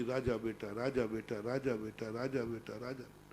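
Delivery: a mother murmuring through tears, fading out; weeping repetition. Retold or imitated. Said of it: "और रोते रोते बोलती". (रोते-रोते धीमा होता स्वर)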